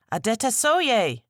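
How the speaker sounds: high, loud cry of a name; shouted name. A narrator's reading. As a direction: call out to him in alarm. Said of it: "Tadenikawo shouted".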